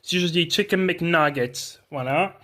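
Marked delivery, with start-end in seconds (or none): 0.5-1.8 slow American English pronunciation; English words in a careful American accent. Shown as a demonstration. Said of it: "l'accent anglais, américain, peu importe".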